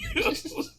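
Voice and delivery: brief high laugh; short high-pitched burst of laughter; real laugh. Real, not acted. Storyteller mockingly thanking the cop, brief laugh.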